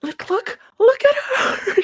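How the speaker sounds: high squeal building to a shriek; frantic pleading. Acted. Begging an ally to look at her friend, frantic. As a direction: plead in a high, strained cry.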